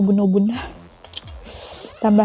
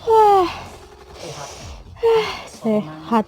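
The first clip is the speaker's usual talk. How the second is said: surprised; 9 semitones higher, much slower than usual. Real, not acted. Reacting to spicy level.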